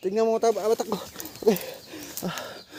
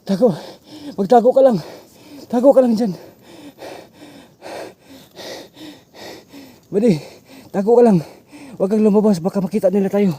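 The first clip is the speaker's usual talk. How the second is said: urgent shouting; 4 semitones higher, 5 dB louder than usual. Acted. Urgently telling buddy to hide.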